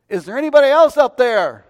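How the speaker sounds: loud, high comic shout; calling out. Retold or imitated. Hiker rejects God's answer and calls skyward, shouting. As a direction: holler upward for someone else.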